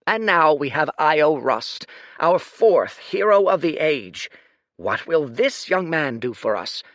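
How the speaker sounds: a proud ruler proclaiming to a crowd; lordly speech. Acted.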